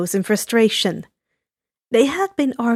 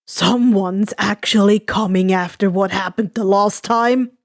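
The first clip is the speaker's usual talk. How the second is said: dry; 4 semitones lower than usual. Acted. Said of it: "a dry look".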